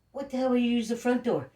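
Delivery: high, loud indignant yell at the cop; retold angry shout. Retold confronting police at back door.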